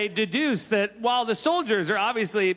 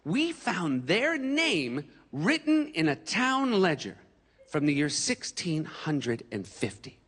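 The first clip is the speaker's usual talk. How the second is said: slow, drawn-out solemn host; Henry Louis Gates; slower than usual. Retold or imitated. Host revealing ancestry to the comic, slow and solemn. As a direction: lean in, slow and portentous, pausing. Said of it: "Henry Louis Gates looked at me and said".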